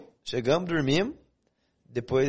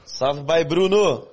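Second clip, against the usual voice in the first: loud shout-out; 4 semitones higher, 6 dB louder, much slower than usual. Real, not acted. Shout-out to a viewer.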